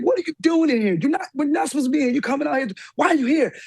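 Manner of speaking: retold mom-mode telling-off. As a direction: demand answers like a mother catching a kid. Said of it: "I go into full-on mom mode".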